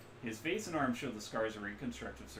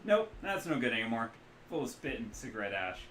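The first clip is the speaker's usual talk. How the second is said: put-on Midwestern accent; 5 dB louder than usual. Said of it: "loose Midwestern accent".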